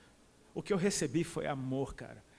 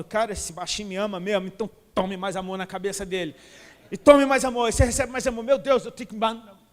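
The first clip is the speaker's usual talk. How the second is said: excited voice of God; 2 semitones higher, 9 dB louder than usual. Acted. God voiced, pouring out love.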